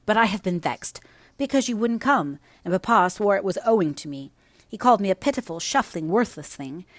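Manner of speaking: voiced young Linton; fretful young boy voice; sickly boy voice.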